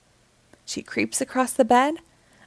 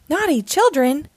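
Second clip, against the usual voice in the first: higher, louder mock scold; 8 semitones higher, 3 dB louder than usual. Bluey as Santa scolding the peeking kids, mock scold. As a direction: tell off the naughty children. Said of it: "she scolds".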